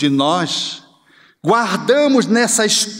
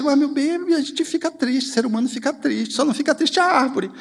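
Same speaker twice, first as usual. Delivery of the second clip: softer, tender explanation; gentle mother; 5 semitones higher, 4 dB quieter than usual. Retold or imitated. Mother gently explaining sadness to her child, tender and soft.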